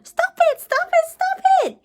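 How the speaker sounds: high, loud pleading through giggles; laughing plea; crying out while laughing. Acted. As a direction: beg to stop mid-tickle. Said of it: "he cried".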